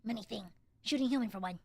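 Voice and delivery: lightly voiced low kobold, broken English; curt little kobold grunting answers.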